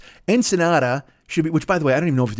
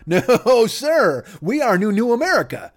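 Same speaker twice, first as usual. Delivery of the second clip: taunting New America; 2 semitones higher than usual. Acted. New America gloats at America, mock cocky taunt. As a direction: gloat like an upstart nation.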